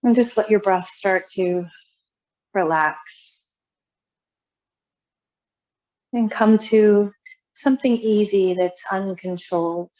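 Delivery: calm, unhurried yoga guidance with long pauses; guided relaxation. Real, not acted. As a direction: ease them into settling, phrase by phrase. Leads seated yoga relaxation.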